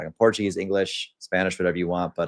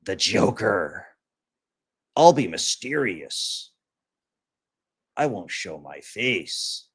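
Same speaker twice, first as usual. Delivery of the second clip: slow, drawn-out mock of a faceless commenter; mock mysterious loser; slower than usual. Streamer mocking a faceless commenter, slow sneering impression. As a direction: play the edgy anonymous guy, sneering and slow.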